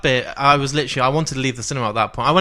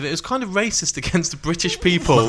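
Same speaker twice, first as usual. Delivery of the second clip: laughing; 3 semitones higher than usual. Real, not acted. Laughs while calling it racist.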